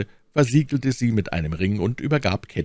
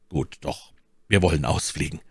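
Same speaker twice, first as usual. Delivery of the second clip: decide it calmly, lightly lowered; ruhiger Athos; 4 semitones lower than usual. Acted. (leicht gesenkte, ruhige Männerstimme)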